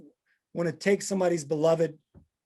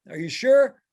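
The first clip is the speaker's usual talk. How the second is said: eager disbelief; 7 semitones higher, 6 dB louder than usual. Retold or imitated. Chad pressing old man to sell.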